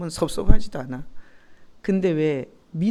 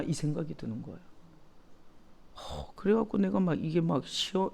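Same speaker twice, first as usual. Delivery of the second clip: ordinary delivery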